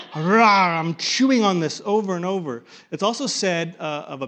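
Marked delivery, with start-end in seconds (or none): 0.1-2.6 growly chewing bear. Pretend. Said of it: "this is a bear".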